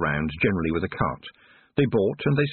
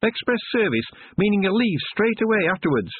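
flatly; 13 semitones higher than usual. Acted. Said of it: "said the second dwarf flatly".

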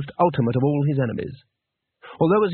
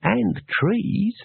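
higher, friendly interjection; lightly amiable, pitched up; 7 semitones higher than usual. A narrator's reading. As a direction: chime in helpfully from above. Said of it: "said a friendly voice from the branches".

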